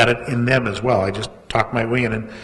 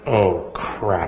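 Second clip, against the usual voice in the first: oh crap; 4 semitones lower than usual. Retold or imitated. Realizes it was really publisher.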